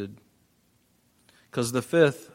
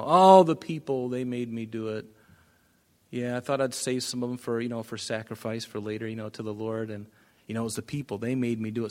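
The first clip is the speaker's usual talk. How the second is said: blame game. Acted. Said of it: "he does this blame game".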